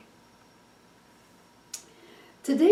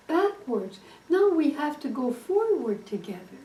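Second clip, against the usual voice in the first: raised, pleading husband, a hint of frustration; really upset; 3 semitones higher than usual. Husband upset with his wife, pleading in a raised voice. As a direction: coax her to celebrate at last. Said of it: "Now he's really upset".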